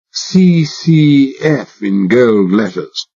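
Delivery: hammed-up upper-class English drawl; exaggerated British accent. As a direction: play the posh Englishman to the hilt. Posh Englishman spelling letters.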